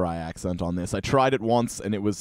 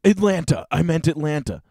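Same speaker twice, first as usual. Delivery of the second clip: mock correction; 5 semitones higher, 4 dB louder than usual. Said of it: "I mean America".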